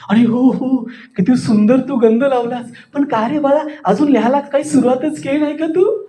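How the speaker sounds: fond coaxing, pitch lifting through the end; demonstrated affection. Shown as a demonstration. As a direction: coo at a dear child in mock admiration. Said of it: "प्रेमानं सांगायचंय".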